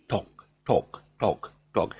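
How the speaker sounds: "talk" as short "tawk", spelled like T O K; tongue down, no L in "talk"; silent L. Shown as a demonstration. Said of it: "it's T O K".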